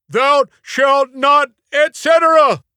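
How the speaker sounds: high, loud, triumphant blurt of "Thou shalt not, et cetera!"; shouted epiphany. Acted. Jimmy blurting his answer to the class, high and shouting. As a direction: yell it out like a sudden revelation. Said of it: "a shouted epiphany".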